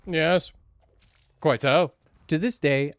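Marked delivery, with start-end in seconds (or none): 0.1-0.5 hammed-up posh English accent, pitched high; shitty posh voice. Poshly voicing his own character to party guests, hammed-up English accent. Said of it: "devolve into a posh version of myself". 1.4-1.9 "Quite so" in a hammed-up posh English accent, rising on "so". Ending a chat with a guest in a mock posh English accent. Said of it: "my shitty posh voice always ends every conversation with "quite so".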